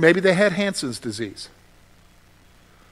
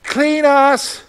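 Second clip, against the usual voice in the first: pleading cry; 7 semitones higher, 4 dB louder, slower than usual. Retold or imitated. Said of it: "They didn't even just say".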